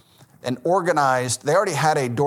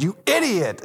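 retold insult; 6 semitones higher than usual. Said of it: "one time I said".

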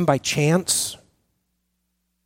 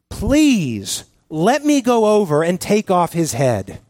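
mildly urgent plea; pleading; 3 semitones higher, slower than usual. Acted. Abishai begs King David for permission, mildly pleading. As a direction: plead with a drawn-out please. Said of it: "pleads with, with David".

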